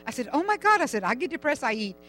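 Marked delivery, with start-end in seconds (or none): 0.3-0.8 high retold exclamation; comic outcry at what they claim; exasperated disbelief. Replying to people too sick to eat, exasperated. 1.0-1.9 animated, high-pitched retold complaint; comic exasperation. Envying people too sick to eat, comically exasperated.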